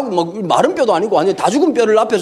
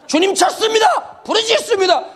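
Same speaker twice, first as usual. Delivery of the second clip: imitated fervent prayer shout, higher; fervent crying out; 9 semitones higher than usual. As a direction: cry out to the Lord like worked-up teens.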